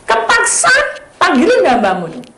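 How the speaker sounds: seruan keras dan tinggi; seruan istri. Retold or imitated. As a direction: serukan dengan nada tinggi. (istri menyuruh suami memanggil hamba Tuhan, berseru keras)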